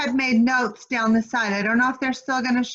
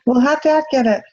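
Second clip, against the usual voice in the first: calling out; 6 dB louder, faster than usual. Real, not acted. Calling to kids at door.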